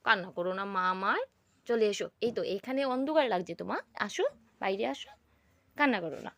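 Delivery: tender coaxing. Real, not acted. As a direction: coax her out kindly. Mother coaxing upset daughter.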